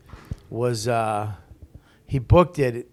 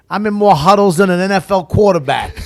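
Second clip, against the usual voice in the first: tough guy impression; 7 semitones higher, 9 dB louder than usual. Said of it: "He goes".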